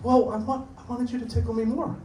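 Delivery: lightly voiced pouting child; kid voice. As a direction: pout it like a little kid. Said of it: "They're like".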